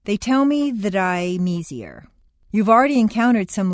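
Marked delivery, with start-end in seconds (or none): 0.0-2.1 words run together in THAT I'M EASIER; linked words. Shown as a demonstration. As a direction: join THAT I'M EASIER smoothly, each end consonant onto the next vowel. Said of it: "liaisons are written like this".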